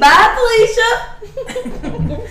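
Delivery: slow high sassy farewell; sassy drawn-out goodbye. Pretend. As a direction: stretch it out with sass. Catchphrase dismissal, drawn out.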